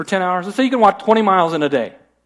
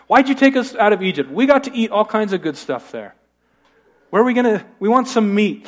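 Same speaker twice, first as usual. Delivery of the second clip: mock complaint, pitched higher; grumbling; 4 semitones higher than usual. Israelites wanting meat, complaining in a raised voice. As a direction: imitate people griping about their lot. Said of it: "they started to grumble".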